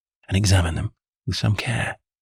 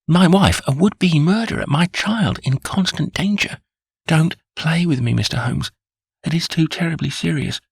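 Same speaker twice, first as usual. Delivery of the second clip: raised, higher voice of a desperate father; desperate plea; 8 semitones higher than usual. A narrator's reading. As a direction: beg him not to play games, voice climbing. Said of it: "was trembling all over".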